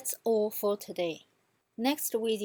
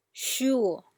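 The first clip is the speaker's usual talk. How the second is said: SURE with a dip; "sure" as a third-tone drill; bouncing third tone; 3 semitones higher, 4 dB louder than usual. Shown as a demonstration. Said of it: "keep repeating them".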